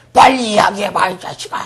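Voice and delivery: high, loud burst of exasperated urging; impatient mock scolding. Frantic caller snaps at someone looking up a dictionary, mock-angry. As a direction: act out an impatient demand to hurry. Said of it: "이렇게 하겠죠".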